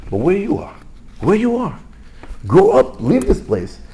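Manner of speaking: acted parental reproach, climbing high; exasperated scolding. Parent to grown son on a toddler's bike, exasperated. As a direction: scold with mounting exasperation and volume.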